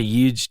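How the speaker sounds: "huge" as "yuge"; Y in place of H. Retold or imitated. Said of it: "replace it with a Y".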